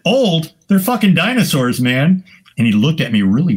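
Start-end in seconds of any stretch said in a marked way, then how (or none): 0.1-2.2 high, punchy scoff; scoffing exclamation. Retold or imitated. Photographer mocks the old defense, high scoff. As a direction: toss it out with mock outrage.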